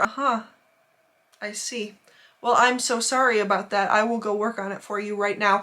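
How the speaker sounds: restrained, lightly imitated polite manager; blank customer service. Manager placating rude customer, lightly imitated blank politeness. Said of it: "that blank customer service stare".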